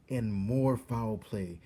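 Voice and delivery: loud, slow, dramatic cry; shouting. A narrator's reading. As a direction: shout the news, stretched out. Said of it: "shouted Cook".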